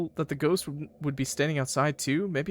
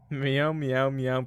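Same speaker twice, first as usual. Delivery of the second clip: imitated meow; much slower than usual. Imitating a cat noise.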